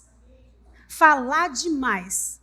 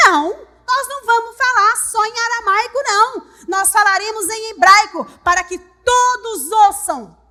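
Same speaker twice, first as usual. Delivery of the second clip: defiant proclamation; 4 semitones higher, 6 dB louder than usual. Acted. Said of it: "sabe o que, que eles falaram pra ele".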